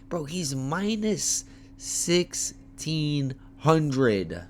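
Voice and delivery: slow, disbelieving about the odds; incredulous. Real, not acted. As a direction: drag it out in disbelief.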